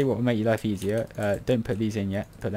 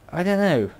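doubtful wail; 10 semitones higher, 7 dB louder than usual. Real, not acted. Builder second-guessing his own plan, doubtful wail. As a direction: raise it into an unsure wail.

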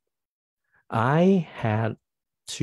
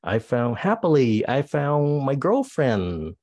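happy; 4 semitones higher, slower than usual. Shown as a demonstration. Teacher acting happy example.

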